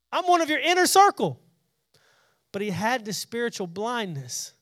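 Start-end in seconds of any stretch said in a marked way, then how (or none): 0.1-1.4 hurt protest. Acted. Peter voiced protesting to Jesus.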